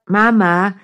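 lightly voiced bored kid, rising whine; drawn-out nagging call, rising at the end; whiny child calling. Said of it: "langweilt sich ein Kind".

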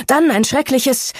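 breaks off abruptly mid-sentence; cut off mid word. Acted. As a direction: stop dead, sentence left hanging. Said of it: "er brach mitten im Satz ab".

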